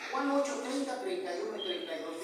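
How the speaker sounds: referencia bíblica dicha deprisa; cita rápida. Real, not acted. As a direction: di la cita de corrido, con prisa por el tiempo. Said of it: "yo lo digo así rápido". (cita bíblica rápida, de pasada)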